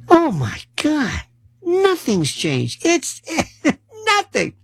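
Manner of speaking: high, cracking mock wail; mock despair. Comic despairing over endless wars, high mock wail. Exasperated over permanent war.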